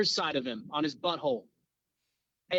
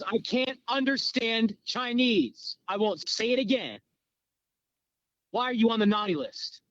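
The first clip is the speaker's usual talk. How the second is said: mock exasperated interrogator; 5 semitones higher than usual. Interrogator to a man he can't understand, mock exasperation. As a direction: spell it out, word by word, with mock impatience. Interrogator repeats himself to captive.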